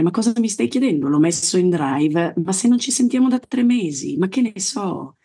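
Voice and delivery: breezy dismissive brush-off. Retold or imitated. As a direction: toss it off as obvious. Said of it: "quasi con un tono, come dire".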